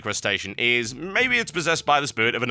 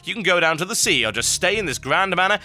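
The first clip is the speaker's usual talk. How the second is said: lilting sales pitch, rising higher as it goes; mock advert read; 4 semitones higher than usual. Host reading a Greymane Manor postcard, mock sales pitch.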